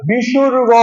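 "বিসর্গ" said carefully with a drawn-out last syllable; pronunciation model. Shown as a demonstration. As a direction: model "বিসর্গ" clearly for pupils to repeat. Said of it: "দেখো উচ্চারণটা".

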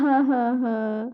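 long, trailing mock sobs; play-acted sobbing. Teacher mourning the children, trailing mock sob.

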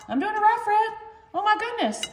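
proud little squeal of success; excited. Real, not acted. Proud of rolling the burrito.

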